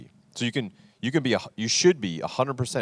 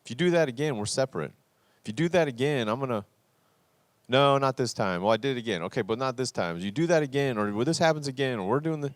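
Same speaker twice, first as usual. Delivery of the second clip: mock threatening spouse, voice pitched higher; a hint of a whiny threatening partner; passive-aggressive threat; 5 semitones higher than usual. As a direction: lightly imitate a nagging ultimatum. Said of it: "we passively aggressively kind of hint around".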